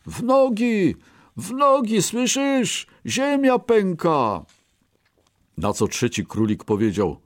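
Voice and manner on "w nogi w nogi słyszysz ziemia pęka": high-pitched urgent warning; crying out loudly. A narrator's reading. Two scared rabbits warn a third, crying out. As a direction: cry the alarm high. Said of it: "wykrzyknęły głośno".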